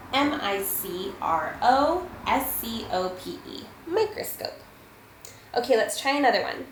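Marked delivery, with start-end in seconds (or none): 3.9-4.5 Microscope with a full long O in the middle, pitched higher; hard, slow long O. Shown as a demonstration. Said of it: "pronounce it really hard and really slowly".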